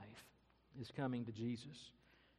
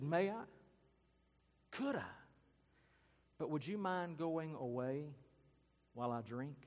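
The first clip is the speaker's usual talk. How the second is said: put-on frightened girl; 3 semitones higher than usual. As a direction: voice of a nervous girl. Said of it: "And she's frightened".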